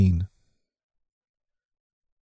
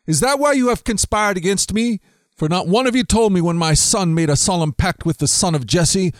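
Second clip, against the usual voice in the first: higher-pitched, indignant accusing king; angry king; 6 semitones higher than usual. Acted. Saul accuses his officers, a lightly acted angry rant. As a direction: demand answers from disloyal men. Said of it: "Saul shouted to his officers".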